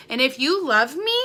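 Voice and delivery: exasperated outburst, pitch shooting up; getting mad. Real, not acted. Vlogger demanding loved ones be happy for her, mad. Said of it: "I'm sorry, I'm getting mad".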